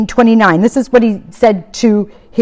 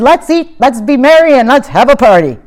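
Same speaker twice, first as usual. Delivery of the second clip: joyful call; 5 semitones higher, 4 dB louder than usual. Retold or imitated. Father calls for celebration.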